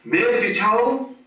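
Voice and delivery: high sing-song notification call; phone alert voice. Retold or imitated. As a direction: mimic the phone chiming out its alert.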